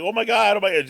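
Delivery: high-pitched imitation of an overexcited child; kid losing it. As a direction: mimic a little girl freaking out with delight. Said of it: "The kid is, like, losing it".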